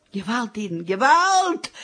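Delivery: a widow screaming for help; cry for help. Acted. Widow cries for help over her stolen ring, screaming.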